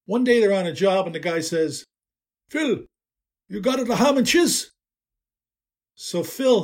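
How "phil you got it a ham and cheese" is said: put-on higher, thick Italian accent asking a question. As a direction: play the Italian coworker in a heavy Italian accent. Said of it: "an accent you could pour over a plate of spaghetti".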